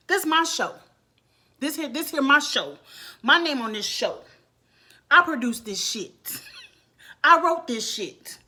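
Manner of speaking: imitated boss on a rant; emphatic retold tirade, claiming ownership; Jocelyn. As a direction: act out a territorial rant, line by punched line. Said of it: "let's go into Jocelyn's rant".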